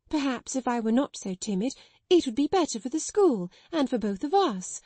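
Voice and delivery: lightly voiced nervous younger sister, rising; a hint of a timid woman finding her nerve; lightly voiced timid sister pleading with her stern elder; timid sister speaking up.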